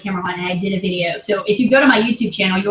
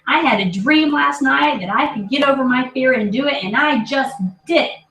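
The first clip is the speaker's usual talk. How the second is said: daughter with conviction; 4 semitones higher than usual. Retold or imitated. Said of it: "she did it with conviction".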